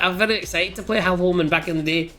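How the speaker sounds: light Irish-tinged character voice; mild Irish lilt in character; slightly Irish accent. Shown as a demonstration. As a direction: demonstrate a hint of an Irish accent. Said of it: "he was kind of Irish a little bit".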